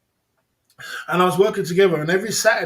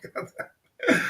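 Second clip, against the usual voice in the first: high, amazed "God damn" through a laugh; mock stunned; 9 semitones higher than usual. Retelling the shock of finding her, amazed and high. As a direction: squeak it out in disbelief.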